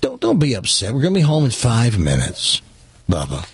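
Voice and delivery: a lightly voiced soothing grandpa, low on Bubba; retelling a grandpa's calm coaxing at a checkout. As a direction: calmly coax a grandson. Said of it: "in a very calm voice says".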